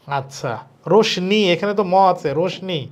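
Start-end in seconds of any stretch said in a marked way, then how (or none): 0.9-1.4 "রোশনি" as rosh-ni, with an N; wrong N variant. Shown as a demonstration. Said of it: "এটাও হইতেছে না". 2.4-2.8 "রোশনি" as rosh-ni, with an N; wrong N variant. Shown as a demonstration. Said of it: "এটাও হইতেছে না".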